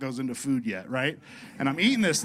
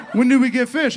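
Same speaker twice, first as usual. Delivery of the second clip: laughing mock question; 10 semitones higher, 10 dB louder than usual. Voicing John, laughing.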